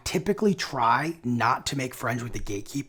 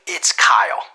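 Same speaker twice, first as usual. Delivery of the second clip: lower, firmer, louder name drop; deeper authoritative; 3 semitones lower, 10 dB louder, slower than usual. Shown as a demonstration. Cold caller giving his name to the gatekeeper, authoritative. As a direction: state your name like you're in charge. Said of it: "a more deeper authoritative tone".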